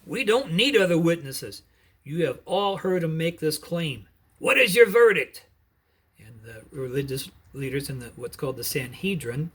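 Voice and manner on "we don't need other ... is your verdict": furious high priest shouting, much louder and higher; outraged shout of blasphemy. Acted. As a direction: hurl the accusation at the whole council. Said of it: "and he shouted".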